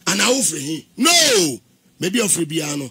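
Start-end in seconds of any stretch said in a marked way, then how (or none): 1.0-1.6 sharp, high, loud "No!"; mock-indignant retold refusal; emphatic no. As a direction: cut the question off with a high, loud no. Retold argument about origins.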